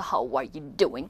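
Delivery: animated, drawn-out American greeting; American accent. Shown as a demonstration. Teacher shows gesturing Americans, animated American accent. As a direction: lay on the American lilt. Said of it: "이렇게 막 제스처 쓰면서".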